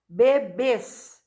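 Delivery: "Bebês" with the second syllable stressed; tônica em BÊS. Shown as a demonstration. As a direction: lean on the closing "bês" of "Bebês". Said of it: "a sílaba mais forte é o bês". ("Bebês" com força no "bês" final)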